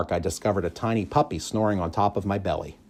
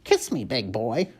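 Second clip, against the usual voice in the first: parrot demanding a kiss; 4 semitones higher than usual. Acted.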